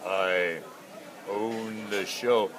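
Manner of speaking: grand fish voice. Acted. Voicing a fish for his children.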